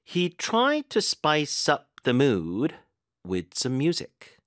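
slow, with TRIED and UP punched; very slow teacher's demo, "up" stressed; stress guide demo. Shown as a demonstration. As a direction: model the sentence deliberately, leaning on "tried" and "up". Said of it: "어디에 힘을 주면 되는지".

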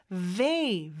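"they" said as "vay" with a clear V; teeth-on-lip V opening "they", drawn out; slow demo syllable "vay"; clear V sound. Shown as a demonstration. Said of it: "V 발음".

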